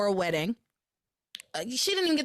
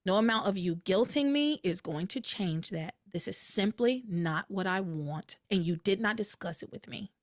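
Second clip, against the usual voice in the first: composed, matter-of-fact boundary setting; calm refusal; 2 semitones lower than usual. Acted. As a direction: hold firm calmly, without pleading. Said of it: "I would very calmly say".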